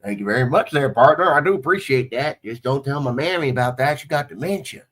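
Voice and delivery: mock country-boy redneck accent. Shown as a demonstration. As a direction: put on a hillbilly twang, lightly hammed up. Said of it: "My redneck accent's pretty good".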